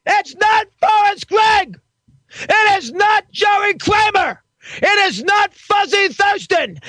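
angry shouting. Acted. Host ranting at wrong answers.

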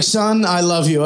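low, stiff dad; father voice. Retold or imitated. Comic imitates his father at graduation, low gruff. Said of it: "He was like".

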